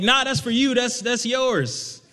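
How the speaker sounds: high, drawn-out imitation of dad; retelling dad brushing it off; dad's voice. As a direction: play the easygoing father, slowly.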